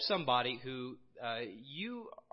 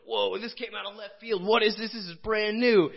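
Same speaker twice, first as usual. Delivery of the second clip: mock astonished; 8 semitones higher, 9 dB louder than usual. Jews meeting new teaching.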